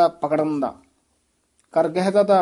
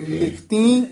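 ਲਿਖਤੀ higher and rising, then a brief stop; short halt after ਲਿਖਤੀ; 4 semitones higher, slower than usual. Shown as a demonstration. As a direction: lift the nasal end of ਲਿਖਤੀ and hold. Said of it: "ਇੱਥੇ ਯਮਕ ਲਾ ਦੇਣੀ".

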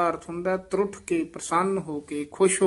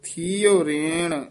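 ਥੀਓ ਰੇਣ with a falling close and short stop; slight check after ਥੀਓ ਰੇਣ; brief halt; much slower than usual. Shown as a demonstration. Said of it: "ਇੱਥੇ ਠਮਕ ਜੀ ਲਾ ਕੇ ਉਚਾਰਨ ਕਰਨਾ ਹੈ".

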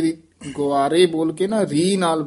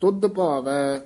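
teacher demo recitation; much slower than usual. Shown as a demonstration. Teacher modelling the verse for a student, measured. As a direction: model the line slowly for the student. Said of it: "ਇੱਥੇ ਵਿਸਰਾਮ".

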